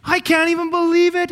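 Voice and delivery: high, loud, thrilled amazement; acting out a crowd's astonishment; amazed disbelief. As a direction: exclaim it high in joyful disbelief. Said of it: "everybody's just going".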